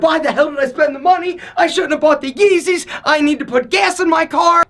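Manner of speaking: quick, panicky buyer's remorse; fast half-joking self-scolding; instant regret. Retold or imitated. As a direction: rattle it off in a fast mock panic. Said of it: "immediately you're like".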